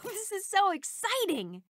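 laughing through the words; bubbling over with glee; giggling, thrilled to join; giggly excitement. Acted. Giddy at joining the team.

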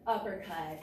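calling strikes while punching; punching through the combo; hitting a punching bag. Real, not acted. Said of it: "keep going".

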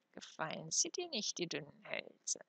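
put-on soft old crone's mutter, sly amusement; amused murmur. A narrator's reading. Old woman teasing the frightened boy, amused murmur. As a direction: murmur it softly as if chuckling. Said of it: "murmelte die Alte lachend".

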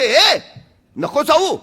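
put-on mother yelling from the kitchen to stop the baby; mother calling out. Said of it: "आई तिथूनच ओरडते".

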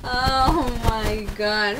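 real overwhelmed joy. Real, not acted. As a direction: stretch it out in disbelief. Overwhelmed by result.

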